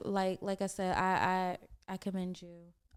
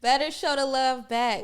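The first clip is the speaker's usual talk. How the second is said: laughing; 4 semitones higher, 11 dB louder than usual. Real, not acted. Laughing praise of the artist.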